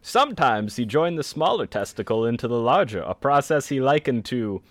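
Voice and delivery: lightly voiced old-fashioned narrator; a hint of a vintage newsreel read; old-timey voice. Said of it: "we want it in the old-timey voice".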